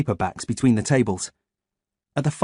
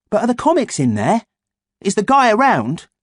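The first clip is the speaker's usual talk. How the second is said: eager; 10 semitones higher, 5 dB louder than usual. A narrator's reading. Eager boy asks.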